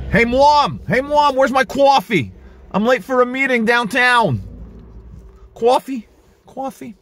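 yelling across the room. Pretend. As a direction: yell for Mom like a spoiled kid. Grown man yelling to mom.

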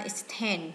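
extend stressed on the second syllable, ex-TEND. Shown as a demonstration. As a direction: put the weight on TEND in extend. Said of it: "nhấn âm hai".

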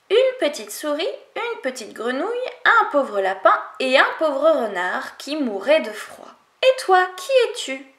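lightly voiced small animals; little animals answering. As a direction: animals telling the wolf who is inside.

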